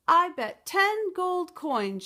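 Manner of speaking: high, loud and slow; bold bet. Acted. Beatrice challenges the giant, loud and slow. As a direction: plant each word like a dare.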